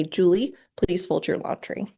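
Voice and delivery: a calm, matter-of-fact request. Shown as a demonstration. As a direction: tell Julie plainly, no fuss. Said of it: "very calm, in a matter-of-fact voice".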